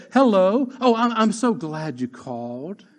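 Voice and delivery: mock sugary hello, slow and sweet; mom's sweet phone voice. Son imitates mom sweetly answering the phone, rod in hand. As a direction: switch to honeyed politeness mid-spanking. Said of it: "she would pick up the phone".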